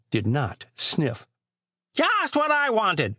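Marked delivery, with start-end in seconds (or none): 1.9-3.2 high-pitched gushing aunt; beaming delight. A narrator's reading. Aunt receiving poetry books for Christmas, beaming with delight. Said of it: "she beamed".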